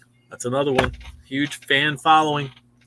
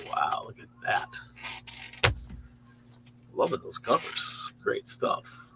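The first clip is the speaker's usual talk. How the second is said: whispered aside; 4 semitones lower, 10 dB quieter, much slower than usual. Real, not acted. Admiring comic covers aside.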